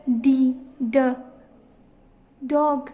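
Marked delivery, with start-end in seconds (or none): 0.1-1.1 डी drawn out, then a short separate ड; name the letter डी, pause, then sound it as ड, "duh". Shown as a demonstration. Teacher introducing D to nursery class, slowly sounding डी, ड. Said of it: "डी की sound".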